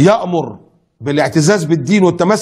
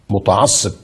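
slow mocking label; 7 semitones lower, slower than usual. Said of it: "يسموه بقى ايه".

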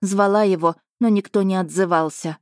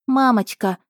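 put-on higher, louder frightened boy's cry; frightened child; 5 semitones higher, 3 dB louder than usual. Boy catching his fainting mother, frightened cry. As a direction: call out in alarm as she falls.

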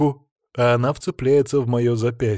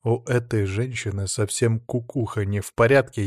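ordinary delivery, nothing marked

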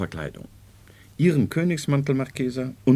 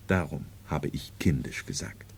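whisper; 11 semitones lower, 7 dB quieter than usual. Acted. Doctor explaining, confidential.

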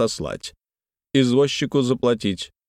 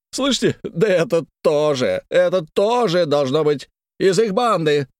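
indignant; 7 semitones higher than usual. Acted. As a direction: point the finger in outrage. Kolomeitsev indignant accusation.

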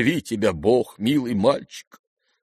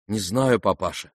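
usual speaking voice

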